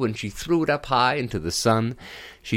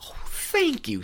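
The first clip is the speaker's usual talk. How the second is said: whispered thanks. Acted. Princess breezy thanks.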